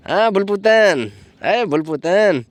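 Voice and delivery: slow, drawn-out loving call to the dog; slow tender calling of a pet; fond call to dog. Real, not acted. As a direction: coax her over by name, slowly.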